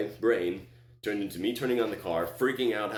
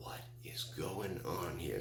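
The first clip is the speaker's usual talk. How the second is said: bewildered; 10 dB quieter, slower than usual. Retold or imitated. Bewildered thought in the car.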